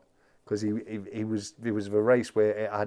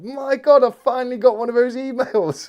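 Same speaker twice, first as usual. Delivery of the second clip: much higher and louder, mock thrilled; mock excitement; 12 semitones higher, 9 dB louder than usual. Streamer recalling the scam email, mock overjoyed. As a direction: gasp it out like you've won the lottery. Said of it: "And I thought".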